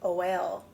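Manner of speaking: "o-l" with a short open O; sounding it out. Shown as a demonstration. Teacher sounding out a word for a child, sounding out. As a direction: sound out "o-l" slowly, letter by letter. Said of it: "if it started with O, it would say".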